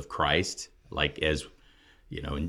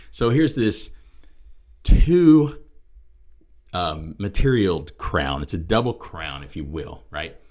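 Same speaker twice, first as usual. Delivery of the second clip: loud, emphatic preacher delivery with weighty pauses; forceful preaching; 4 semitones higher, 6 dB louder than usual. Real, not acted. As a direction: drive each point home loudly.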